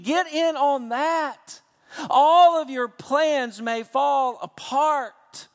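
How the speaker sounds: rising to a loud preaching shout; slow, loud and urging the congregation on; forceful call. Real, not acted.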